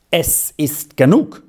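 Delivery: governess's curt angry outburst; angry exclamation. A narrator's reading. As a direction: cut it off in anger. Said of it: "rief das Fräulein zornig aus".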